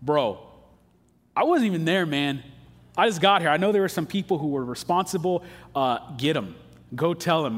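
mock defensive bro, casually pleading innocence; imitating a defensive listener. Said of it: "if you're like me, man, you're going".

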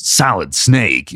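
slowed-down tough soldier voice; drawn-out action hero growl; Solid Snake voice. Retold or imitated. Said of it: "say Solid Snake in the Solid Snake voice".

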